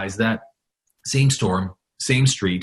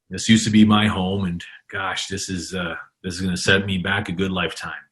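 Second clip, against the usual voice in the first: understated dejection, slightly subdued; mildly downcast. Retold or imitated. Storm victim at his wrecked home, mildly downcast. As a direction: retell it as a man a bit defeated. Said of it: "he's pretty down in himself right now".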